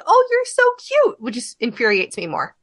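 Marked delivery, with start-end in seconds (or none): 0.1-1.2 put-on high, cooing baby talk; mock patronizing coo; condescending coo. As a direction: coo it like patting a child's head. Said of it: "that little pat on the head".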